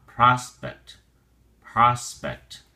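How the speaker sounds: prospect, short o, stress on pros; correct prospect. Shown as a demonstration. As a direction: repeat prospect as PROS-pect. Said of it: "The O is a soft O".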